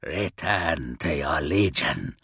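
low-voiced, grave urging. A narrator's reading. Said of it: "urged Ferrus".

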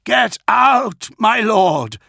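desperate high scream; officer screaming at his lord to escape. A narrator's reading. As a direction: scream the warning with everything. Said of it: "Pollux screamed".

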